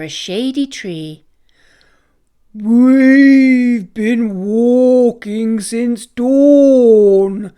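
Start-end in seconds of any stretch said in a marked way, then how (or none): 2.5-7.5 slow, loud lowing moo voice; mooing cow. Acted. Cow mooing to Casper after walking since dawn, slow loud moo. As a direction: stretch every word out like a tired cow. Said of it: "Cow mooed".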